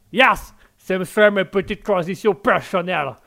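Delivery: hammed-up American accent in French. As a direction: play an enthusiastic American stumbling through French. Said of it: "directement avec l'américain".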